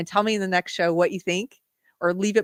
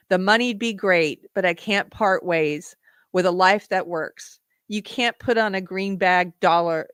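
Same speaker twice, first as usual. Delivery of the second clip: slow, deliberate, earnest lyric reading; slow heartfelt recital. Acted. Host recites the farmer's proud answer, slowly and earnestly. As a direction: let each line land slowly.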